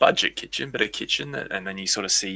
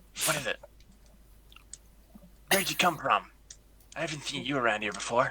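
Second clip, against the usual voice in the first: goblin voice with slight lisp, higher and quieter; 5 semitones higher, 5 dB quieter than usual. Voicing a goblin who meets a new arrival: goblin voice with a little lisp. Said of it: "this goblin's little lisp".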